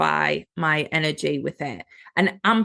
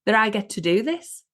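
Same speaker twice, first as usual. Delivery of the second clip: delighted; 4 semitones higher than usual. Pretend. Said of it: "she could have just went".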